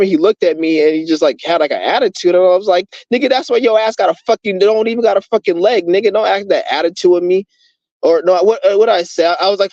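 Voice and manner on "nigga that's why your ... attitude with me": retold telling-off. Retelling telling off a rude man.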